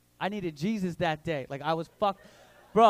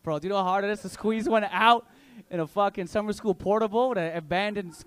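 usual speaking voice

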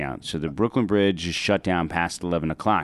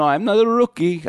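higher, indignant mock cab driver; cabbie near breakdown; 12 semitones higher, 4 dB louder than usual. Cab driver defending himself, mock distress. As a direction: protest like a driver losing it. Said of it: "a guy on the verge of a breakdown".

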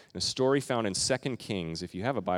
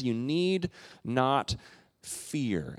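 gentle Jesus; 2 semitones higher, much slower than usual. Retold or imitated. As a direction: reassure them slowly. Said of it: "And Jesus says".

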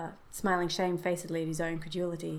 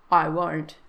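firm, louder refusal; dogged; 9 dB louder than usual. A narrator's reading. Soldier refusing to hand over the paw, doggedly. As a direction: refuse stubbornly, punching it out. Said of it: "said his friend doggedly".

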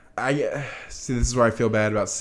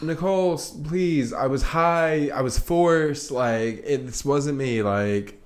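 pleading Margot; 4 semitones higher, slower than usual. Retold or imitated. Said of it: "Margot's like".

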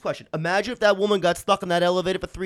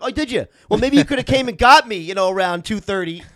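sarcastic; 2 semitones higher, 5 dB louder than usual. Retold or imitated. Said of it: "I'm like".

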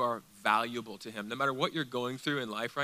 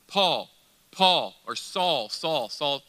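Jesus calling Paul; 5 dB louder, much slower than usual. Acted. Preacher voices Jesus calling Paul on the Damascus road, calling out. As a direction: call the name out, leaving a pause. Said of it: "he says".

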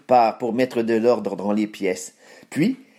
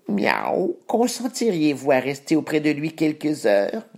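cat voice; 5 semitones higher than usual. Acted. Cat character voice.

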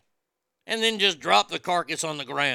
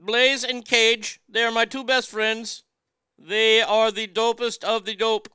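Dirk surfer voice; 7 semitones higher, 4 dB louder than usual. Pretend. Continues as Dirk character.

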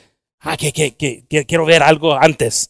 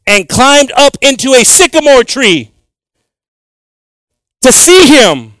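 slow reading; 8 semitones higher, 7 dB louder, slower than usual. Shown as a demonstration. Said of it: "I like to read the word so slow".

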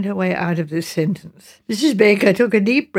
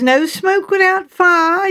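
retold hot temper; 11 semitones higher, 5 dB louder, slower than usual. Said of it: "being hot like in his temper".

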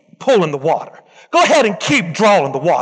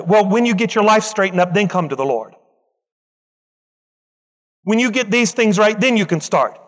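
voicing the devil. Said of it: "That's what the devil wants to tell you".

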